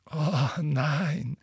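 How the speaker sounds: drawn-out refusal with a grim smile. A narrator's reading. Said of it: "mit einem grimmigen Lächeln".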